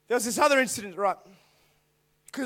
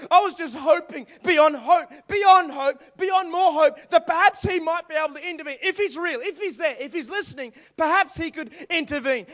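desperate praying; 4 semitones higher, 4 dB louder than usual. Retold or imitated. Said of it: "Have you ever prayed like that".

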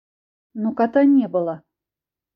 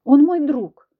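louder, higher protest; objecting; 5 semitones higher, 6 dB louder, much slower than usual. Acted. Ksyusha protests to Filya, defending her friend loudly. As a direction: stand up for your friend. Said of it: "возразила я".

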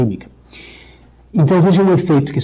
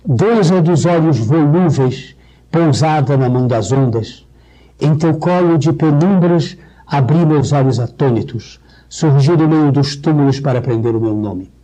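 recitação de poema. Shown as a demonstration. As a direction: recite it with weight and care. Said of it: "vou me permitir uma dissecação". (declamação lenta de poema)

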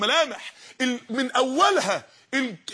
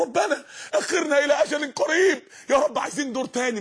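pleading cry; 3 semitones higher than usual. Acted. Preacher voicing the wrongdoers' plea, tearful cry. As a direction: beg to be given more time.

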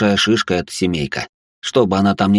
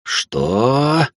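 shocked cry; 6 semitones higher than usual. A narrator's reading. Mother shocked.

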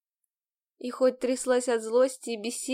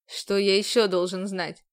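restrained tone; 4 semitones lower than usual. A narrator's reading. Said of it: "сдержанным тоном спросил".

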